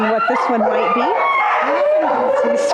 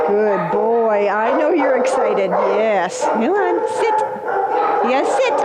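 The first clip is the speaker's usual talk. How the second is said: coaxing a dog to sit; sing-song praise for a puppy; talking to a dog; slower than usual. Real, not acted.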